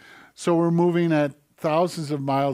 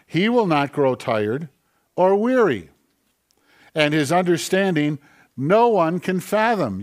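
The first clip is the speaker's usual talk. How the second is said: proclaiming; 3 semitones higher, 5 dB louder than usual. Real, not acted. Preacher proclaiming God's greatness.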